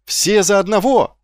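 high, loud battle cry; bold, heroic exclamation; rallying cry. A narrator's reading. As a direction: call the troops to arms. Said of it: "воскликнул он".

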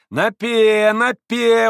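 high, loud, stretched calls; heated betting. A narrator's reading. Mitya doubling stakes as he loses, heated calling. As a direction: keep doubling with rising fervour.

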